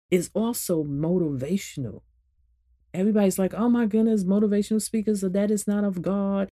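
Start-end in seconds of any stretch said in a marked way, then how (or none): 3.5-6.5 slightly raised voice of a scandalized believer; mock disapproval. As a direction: imitate church folk objecting.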